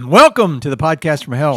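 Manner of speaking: loud podcast host welcome; show opening announcer. Acted. Opens the show.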